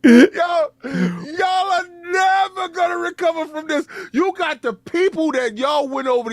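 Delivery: hammed-up victory taunt; gloating cry. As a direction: crow with glee at them.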